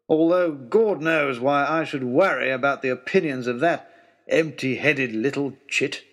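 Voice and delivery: a lightly voiced peevish aristocrat; grudging, put-upon lordship; a hint of a testy baronet father; grumbling old lord. Lord Daunt's grumbling reply.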